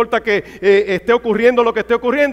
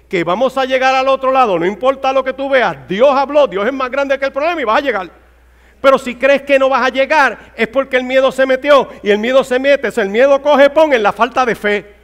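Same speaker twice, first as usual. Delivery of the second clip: forceful preaching; 3 semitones higher, 3 dB louder than usual. Real, not acted.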